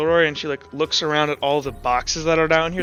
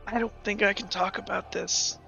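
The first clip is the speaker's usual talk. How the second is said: hushed, much softer confiding voice; acted whisper; 3 semitones higher, 10 dB quieter than usual. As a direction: lean in and whisper it privately. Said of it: "whispers into your ear".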